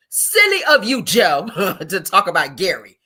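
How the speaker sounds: loud sing-song taunt; mocking repeat. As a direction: rub it in. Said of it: "That's what she told you".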